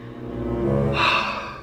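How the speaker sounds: long, heavy breath out; big acted sigh; deep breath. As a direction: act out taking a deep breath to steady yourself. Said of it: "I took a deep breath".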